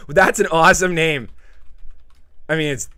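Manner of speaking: high breathy laugh into loud delight. Real, not acted. Streamer laughing at a silly miner name, loud and amused. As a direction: crack up at the name.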